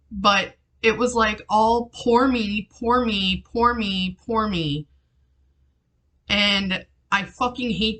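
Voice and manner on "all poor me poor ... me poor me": drawn-out, sing-song imitation of self-pity; mock self-pity. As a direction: mimic someone wallowing, each repeat stepping down. Mimics mother's self-pity.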